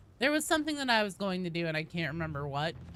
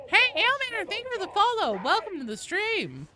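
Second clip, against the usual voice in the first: excited greeting; 13 semitones higher, 7 dB louder than usual. Real, not acted. Greeting follower on stream.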